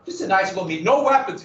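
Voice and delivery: "No weapons" thrown up high and loud in irony; mock innocent. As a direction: sell it as a sarcastic fake promise. Mocking the peace meeting trap.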